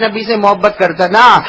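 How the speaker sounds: mock half-hearted, limp reply; lukewarm mumble. Shown as a demonstration. Preacher mocking the crowd's weak reply, lukewarm mumble. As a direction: imitate a cold, careless answer. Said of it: "ایسے نہیں بولو".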